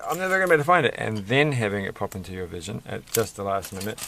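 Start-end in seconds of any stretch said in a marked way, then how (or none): 0.0-0.9 higher, whiny despair fading; light mock despair; mock panic. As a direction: play the hopeless searcher. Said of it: "Which is not the same thing as saying".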